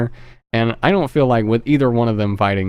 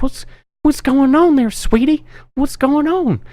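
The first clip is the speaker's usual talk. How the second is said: put-on high sugary old-lady voice, much higher; nice old lady. A killer posing as a sweet old lady to the girl. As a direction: put on a sweet fake granny voice. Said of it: "trying to act like she's just this nice old lady".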